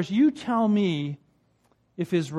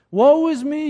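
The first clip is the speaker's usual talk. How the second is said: "Woe is me" wailed much higher and louder, hammed-up; mock self-pity; 7 semitones higher, 8 dB louder than usual. Mimicking complainers for the congregation, mock self-pitying wail. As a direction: moan it like a mock martyr. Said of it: "you hear them say".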